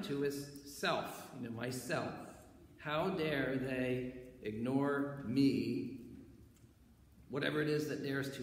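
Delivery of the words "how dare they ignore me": slow sing-song how dare they ignore me; indignant. Acted. Preacher acting out the proud self, slow and singsong. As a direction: stretch it out like wounded pride.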